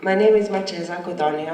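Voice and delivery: blocked nose, stuffy speech; talking through a stuffy head cold; congested voice. Real, not acted. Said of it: "I'm very congested".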